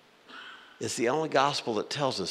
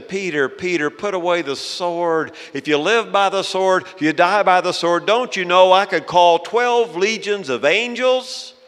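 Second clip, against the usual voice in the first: raised, urgent voice of rebuke; forceful rebuke; 7 semitones higher, 7 dB louder than usual. Acted. Jesus stopping Peter with his sword out, forceful rebuke. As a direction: command loudly, pitched high, building to a challenge.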